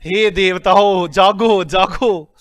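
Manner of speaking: slow, loud call to wake the gods; hammed-up divine summons; mock wake-up call. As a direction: rouse a drowsy class theatrically. Mock wake-up call to sleepy class.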